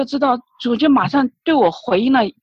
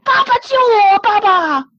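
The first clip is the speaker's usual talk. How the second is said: crying out for rescue; 9 semitones higher, 4 dB louder than usual. Retold or imitated. Believer reenacting a prayer to God, crying out desperately. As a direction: cry out to father for help, pitch soaring. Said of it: "我就喊，我说".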